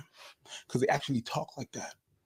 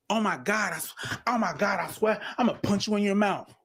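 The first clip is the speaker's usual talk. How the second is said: lightly voiced girl talk, higher; imitating girls; 6 semitones higher than usual. Guest imitating how girls threaten friends, high and casual. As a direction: toss off the threat like casual girl chat, pitched up. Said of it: "girls do the same shit".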